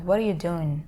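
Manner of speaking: "What are you doing?" as "whaddaya doing"; connected, casual "What are you doing?"; words combined. Shown as a demonstration. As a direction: blend "What are you" into one unit. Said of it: "It's like the words are combined".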